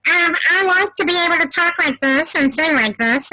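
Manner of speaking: squeaky chipmunk helium voice. Shown as a demonstration. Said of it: "I'm also the queen of the chipmunk voice".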